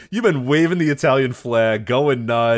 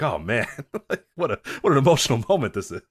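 mock emotional. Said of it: "You're like".

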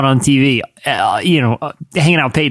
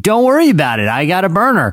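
lightly voiced chummy caller, pitched higher; impression of a rapper; 4 semitones higher than usual. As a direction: play the buddy pretending to be a rapper, a bit higher. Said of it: "I'll be like".

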